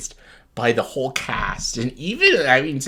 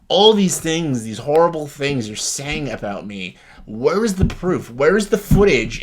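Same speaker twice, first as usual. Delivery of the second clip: retold demand; 4 dB louder than usual. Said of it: "He's like".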